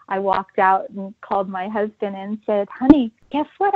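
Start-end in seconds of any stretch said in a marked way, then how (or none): 2.7-3.7 excited news. Retold or imitated. Calling husband with big news.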